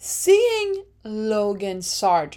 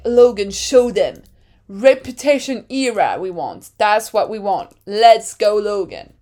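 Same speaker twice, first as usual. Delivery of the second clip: louder, rallying cheer; louder hype-up; 6 dB louder than usual. Retold or imitated. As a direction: pump him up. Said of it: "And I'm like".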